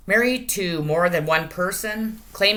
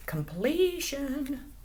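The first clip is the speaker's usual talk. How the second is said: drawn-out high; 11 semitones higher, 6 dB quieter, much slower than usual. Real, not acted. Card name drawn out.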